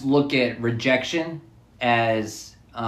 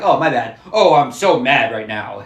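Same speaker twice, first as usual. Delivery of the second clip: faking being mad; 7 dB louder than usual. Retold or imitated. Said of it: "It's like pretending".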